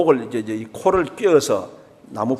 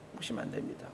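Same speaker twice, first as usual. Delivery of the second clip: whispered echo; 21 dB quieter, much faster than usual. Shown as a demonstration. Pastor echoing his warning to the congregation in a whisper. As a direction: repeat 무시하면 안 됩니다 as a breathless whisper. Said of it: "하나님 무시하면 안 됩니다".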